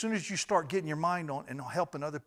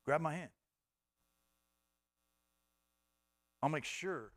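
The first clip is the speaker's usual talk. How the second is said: voice of God; 2 semitones lower, 5 dB quieter than usual. Retold or imitated. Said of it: "God says".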